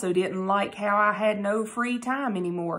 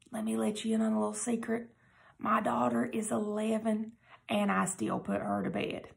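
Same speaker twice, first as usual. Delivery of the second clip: confiding secret; 5 dB quieter than usual. Acted. Confiding aside to listeners.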